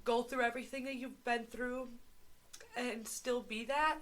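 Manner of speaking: tearing up. Real, not acted. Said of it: "she is literally tearing up".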